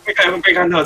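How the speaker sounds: loud excited cry; panic-laugh at being spotted. Real, not acted. 被敌人发现. (激动大喊)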